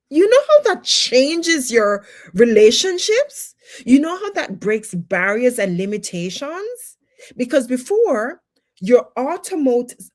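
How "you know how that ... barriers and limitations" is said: rousing call. Real, not acted. Preacher pressing the point.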